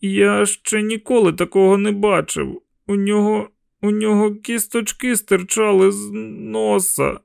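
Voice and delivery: put-on a horrified boy describing the face; shaken boy. A narrator's reading. Shaken boy describes dead man.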